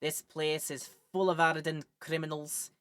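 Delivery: put-on a light, casual Scottish accent; general Scottish accent. Streamer voicing the prison governor, light Scottish accent. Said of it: "I'll just go general Scottish".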